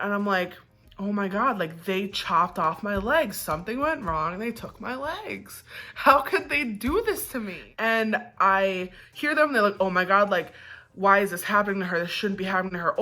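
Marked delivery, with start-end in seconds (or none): 1.0-7.7 retold freak-out. Patient retelling her fear that they took her legs, freaking out. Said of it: "like, freaking out". 9.8-13.0 rattled-off retold nurse chatter; rapid repetition. Patient imitating nurses repeating themselves over and over, rapid. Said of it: "over and over again".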